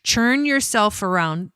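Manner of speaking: ordinary talk, nothing marked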